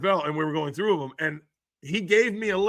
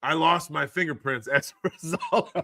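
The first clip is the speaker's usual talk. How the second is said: reading the chat line, breaking into laughter; can barely get the words out for laughing; laughing while reading. Real, not acted. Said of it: "I don't know why this is so funny to me".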